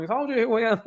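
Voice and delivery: high-pitched mock yell, no real volume; mock shout back. Streamer imagining the man behind the chat, high mock shout. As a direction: imitate someone shouting back, breaking into laughter. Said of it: "he'd probably be shouting back on".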